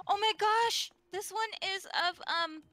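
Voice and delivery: high-pitched, gushing surprise; real fangirl excitement, pitched high; delighted excitement. Real, not acted. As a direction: squeal it out, thrilled by the find. Delighted by a cute fan drawing.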